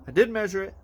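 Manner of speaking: "did" punched high and loud; stress on did. Real, not acted. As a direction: lean hard on "did". Insists he measured correctly.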